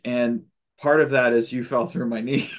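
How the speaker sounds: breaking into a laugh on the last word; a chuckle slips out right before knee. Retold or imitated. Telling the welder in her dream he fell through her knee, with a laugh.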